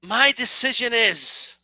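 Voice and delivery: slow, suspenseful telenovela line; drawn-out announcement. Retold or imitated. Heroine about to name her chosen man, drawn-out suspense. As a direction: stretch it out like a dramatic reveal.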